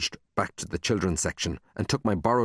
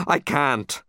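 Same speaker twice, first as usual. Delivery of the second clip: higher-pitched moaned refusal; moaning; 6 semitones higher, 3 dB louder than usual. Acted. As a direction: plead helplessly. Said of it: "I moaned".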